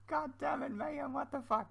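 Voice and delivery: high laughing exclamation. Real, not acted. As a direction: blurt it out through laughter. Laughing at his build again.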